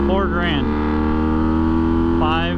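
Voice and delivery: shouting over a roaring engine; yelling inside a helmet. Real, not acted. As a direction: raise your voice over the exhaust noise. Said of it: "yell to even hear over my own self talking".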